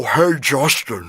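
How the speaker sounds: slow, creepy horror-villain voice; Tim. Retold or imitated. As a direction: call out like a movie creep. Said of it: "Whose voice is that?".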